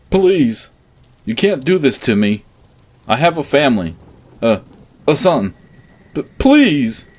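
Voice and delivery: high, loud desperate begging; stammering plea. A narrator's reading. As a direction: beg frantically, stumbling over words. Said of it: "my dad stammered out".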